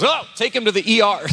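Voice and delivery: retold startled outburst from a doctor; alarmed doctor. Doctor turning away from the bitten lip, alarmed.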